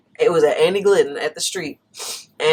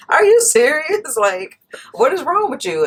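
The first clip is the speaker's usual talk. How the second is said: retold disbelief; 9 semitones higher than usual. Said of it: "And I was like".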